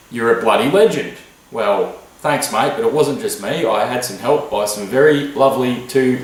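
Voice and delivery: deep mock Aussie radio host reading the mailbag; mock Aussie patriot host. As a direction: drop the voice low like a self-important talk host.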